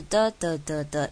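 的的的的 chanted as beats stepping down; 一阶一阶往下. Shown as a demonstration. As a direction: tap out 的的的的 like descending stairs. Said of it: "记住它的声调是". (的的的的一阶一阶往下念)

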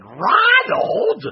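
high, loud exclamation; loud call. A narrator's reading. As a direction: call him out sharply. Elizabeth calls him out.

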